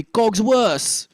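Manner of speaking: French-accented "Cogsworth" without the TH. Shown as a demonstration. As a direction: say "Cogsworth" ending in an S, French-style. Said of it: "drop that and it'll be Cogsworth".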